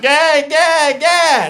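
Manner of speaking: high, drawn-out halfhearted yeahs; mock reluctant helper; bored friend. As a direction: sound like your heart's not in it. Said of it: "He's like".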